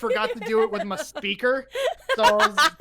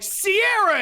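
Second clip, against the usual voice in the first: high, louder call of her name; 11 semitones higher, 6 dB louder than usual. Retold or imitated. Friend calls Sierra out mid-stream.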